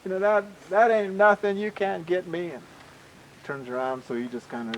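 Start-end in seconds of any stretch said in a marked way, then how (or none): 0.0-2.5 mock-boastful crowing; gleeful taunt. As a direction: goad him while splitting your gut. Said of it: "Cougar is splitting the gut by this time".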